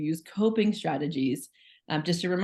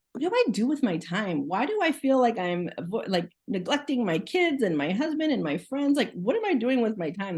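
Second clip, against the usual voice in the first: mildly frustrated self-questioning, higher pitch; retold self-frustration; 4 semitones higher than usual. Mother recalling worry over neglected family, mildly frustrated. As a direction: question yourself with a touch of exasperation. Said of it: "I felt very frustrated with myself".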